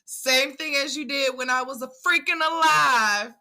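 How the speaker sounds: lightly voiced scolding sister; a mock telling-off with stressed words; playful imitation of a fed-up sister; not playing. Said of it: "Sister was not playing".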